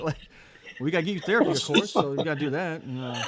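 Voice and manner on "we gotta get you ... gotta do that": making plans. Retold or imitated. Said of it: "starts making plans and shit".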